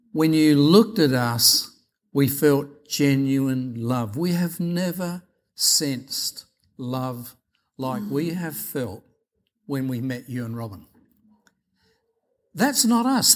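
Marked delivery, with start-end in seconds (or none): 0.1-10.9 tender quote. Retold or imitated. Congregants quoted, tender testimony.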